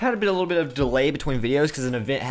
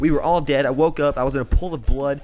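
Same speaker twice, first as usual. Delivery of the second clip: mock horror tale; 4 semitones higher than usual. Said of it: "just kidding".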